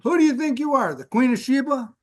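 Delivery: scolding mother. Retold or imitated. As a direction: belt out mom's sarcastic put-down. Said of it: "things my mom used to say".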